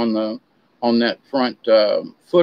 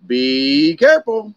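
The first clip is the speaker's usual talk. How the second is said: slow, weighty caution; a shaman gently warning the traveller; solemn warning; slower than usual. Retold or imitated. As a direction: warn them slowly like a shaman. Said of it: "first thing they want to say".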